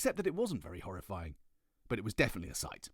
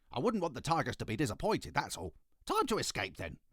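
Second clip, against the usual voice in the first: put-on little girl voice; 7 semitones higher, 4 dB louder than usual. Ketchup Face voiced in story.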